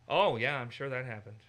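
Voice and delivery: dry mocking oh yeah; sarcastic sure-that-happened. Shown as a demonstration. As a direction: drip with disbelief. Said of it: "solely by sarcasm".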